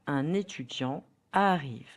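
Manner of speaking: "Un étudiant" linked with an n sound; teacher's model of the n liaison in "Un étudiant"; French liaison. Shown as a demonstration. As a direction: carry the n of "Un" into "étudiant". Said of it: "try to hear the liaison".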